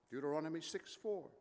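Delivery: usual speaking voice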